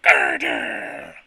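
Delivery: calling out. Acted. Calling out the boss.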